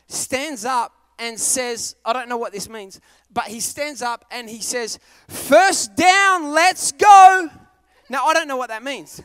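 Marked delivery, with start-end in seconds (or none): 5.3-7.5 fan yelling. Retold or imitated. Fan yells in box.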